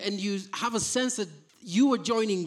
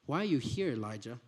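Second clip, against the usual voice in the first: hushed, gentle question; soft whispering voice; 9 semitones lower, 6 dB quieter than usual. A narrator's reading. God asking Elijah in a soft, hushed voice. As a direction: ask it softly, like a still small voice. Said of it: "a soft whispering voice".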